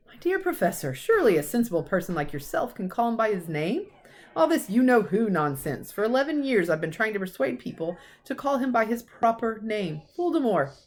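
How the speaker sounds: lightly voiced kindly old wizard; Dumbledore. Dumbledore urging the professor to say the name, mild old voice. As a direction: coax her gently, old headmaster.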